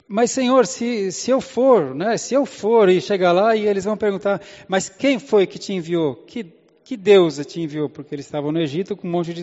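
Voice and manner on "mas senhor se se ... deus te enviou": pleading Moses. Acted. Moses objects to God.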